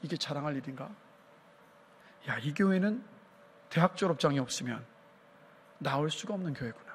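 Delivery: low, softened musing; inner thought. Retold or imitated. Young seminarian silently doubting a boast, low private musing. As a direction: say it quietly, as if to yourself. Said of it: "속으로 그 얘기를 들으면 이런 생각을".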